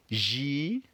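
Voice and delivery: Gy-ro-fa split into three even syllables, rising; teacher breaking Gy-ro-fa into syllables; slowly, syllable by syllable. Shown as a demonstration. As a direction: take Gy-ro-fa slowly. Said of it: "let's take it slowly again".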